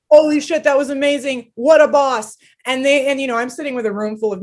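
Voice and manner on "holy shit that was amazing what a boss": high, loud delighted exclaim; excited. Retold or imitated. Praising the president's shove, delighted. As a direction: rave about it. Retold cheering at NATO office.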